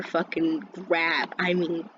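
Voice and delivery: slow, drawn-out intense telling; really intense. Retold or imitated. Storyteller overdramatizes grabbing the speaker, intense. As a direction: stretch each word for dramatic weight. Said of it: "how I'm saying it, like, really intense".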